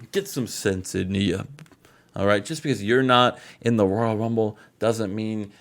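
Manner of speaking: lightly voiced Booker T giving a pep talk; imitating Booker T rallying his stablemate. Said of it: "I'm Booker T saying this".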